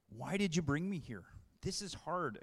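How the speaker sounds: lightly pouty whine. Retold or imitated. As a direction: whine it like a sulky kid. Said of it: "Again, pouty voice".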